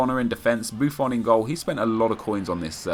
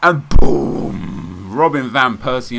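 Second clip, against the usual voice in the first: loud burst of excitement; excited shout; 3 semitones higher, 10 dB louder, much slower than usual. Real, not acted. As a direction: shout the reveal with glee. Pack opening reveal, big shout.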